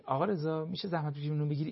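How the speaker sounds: gentle request. Retold or imitated. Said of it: "دستشو بگیری بگی".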